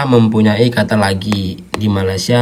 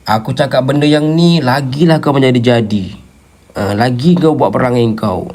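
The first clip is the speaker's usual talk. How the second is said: mock anger; 3 semitones higher than usual. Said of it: "contoh lu tengah marah".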